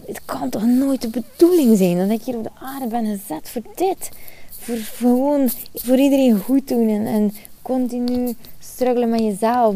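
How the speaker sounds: a hint of a despairing inner voice. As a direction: voice the little voice inside, pleading. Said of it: "Dat was zo'n stemmetje die bij mij altijd, eh, riep".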